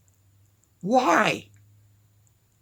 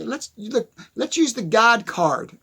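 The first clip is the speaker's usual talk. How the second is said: stuttering. Real, not acted. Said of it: "Sorry for my stuttering".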